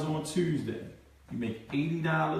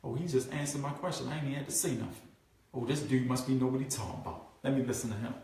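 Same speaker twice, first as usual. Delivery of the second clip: quiet inner voice; 4 semitones lower, 8 dB quieter, faster than usual. Retold or imitated. Prospect's relieved inner thought.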